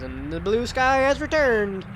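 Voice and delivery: slow, rising singsong storytelling; fairy-tale narrator. Acted. Player narrating the happy ending, mock fairy-tale lilt.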